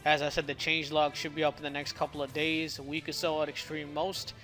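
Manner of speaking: slightly slurred, sore swollen lip; slurred speech. Real, not acted. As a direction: talk carefully around a cut tongue. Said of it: "I'm slurring my words and even stuttering some".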